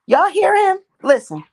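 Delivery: loud excited call to viewers. Real, not acted. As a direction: call out, thrilled.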